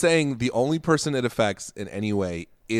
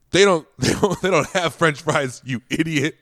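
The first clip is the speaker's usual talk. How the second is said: mocking heckle; 4 semitones higher than usual. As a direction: jeer at her while cracking up.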